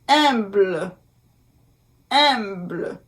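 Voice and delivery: "Humble" in French, silent h, nasal "hum-"; careful French pronunciation. Shown as a demonstration. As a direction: model "Humble" with a nasal vowel. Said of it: "U M".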